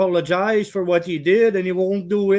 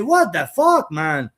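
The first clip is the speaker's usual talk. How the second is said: retold outrage; 4 semitones higher than usual. Retells his outraged reply.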